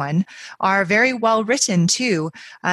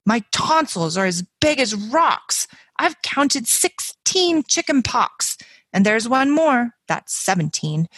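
put-on higher, dramatic sick-child complaining; Peggy Ann whining sick; 4 semitones higher than usual. Little girl faking illness to skip school, hammed-up whiny. Second reading in character.

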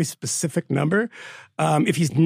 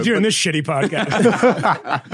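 laughing; slower than usual. Real, not acted. Teasing guests, laughing.

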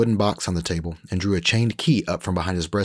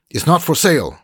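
put-on higher, louder indignant old cook; old cook Gavino; 10 semitones higher, 8 dB louder than usual. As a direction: refuse flatly as the old cook. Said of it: "Gavino grunted".

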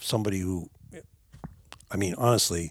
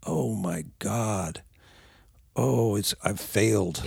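1 mock despair; slower than usual. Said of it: "my mind just twisting into a pretzel like".

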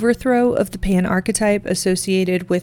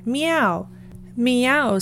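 cat meows; 4 semitones higher than usual. Acted. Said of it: "said old Tom again".

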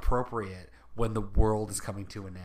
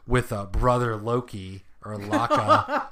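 laughing; 6 dB louder than usual. Real, not acted. Laughing while quoting the show.

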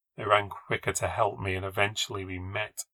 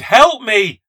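loud, high-pitched cry for help; desperate scream; 13 semitones higher, 16 dB louder than usual. Acted. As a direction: scream for help with all your strength. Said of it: "I screamed".

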